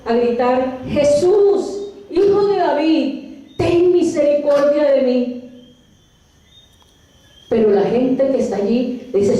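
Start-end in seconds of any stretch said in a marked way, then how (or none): 0.9-5.5 mild acted cry. Blind beggar calling to Jesus as he passes, mild acted cry. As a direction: call out for mercy with restrained force. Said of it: "empieza a gritar, a gritar".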